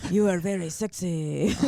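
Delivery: laughing, bad Spanish accent; flirty fake Spanish accent. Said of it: "That's a really bad accent".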